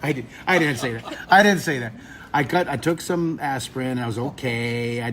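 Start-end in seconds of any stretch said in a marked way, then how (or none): 0.0-1.9 chuckling admission; amused, laughing retraction. Real, not acted. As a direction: say it through a laugh. Laughs at his own invented quote.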